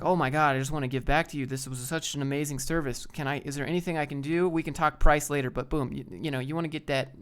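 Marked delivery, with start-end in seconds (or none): 0.0-5.5 louder, bubbly thanks; gushing customer. Retold or imitated. Pretend customer thanks the company, bubbly and louder. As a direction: lightly gush with gratitude. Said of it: "pretend that you were a customer".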